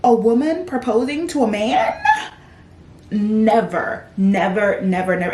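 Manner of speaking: loud, insistent never never; mock outraged denial; emphatic never. Real, not acted. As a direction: hammer the refusal. Ranting about trope.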